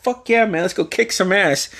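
high-pitched imitated rallying reply; pumped up. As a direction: voice a teammate hyped for the game. Teammate's hyped-up reply acted out.

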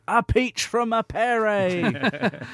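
slow, high English football commentator call; mock English commentator voice; English commentator accent. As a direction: ham up a posh English commentator. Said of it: "I don't know why I put an English accent on that".

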